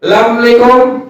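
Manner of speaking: clipped lazy Assalamualaikum; neighbour's careless salam; mock sloppy greeting. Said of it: "Jangan Assalamualaikum".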